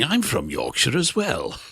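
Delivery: slow, lightly put-on reply about a Yorkshire accent; talking like this. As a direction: draw out the words in answer to the Yorkshire accent. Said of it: "I talk like this".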